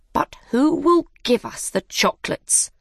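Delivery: high-pitched questioning mouse; mouse character voice. Acted. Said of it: "the mouse asked".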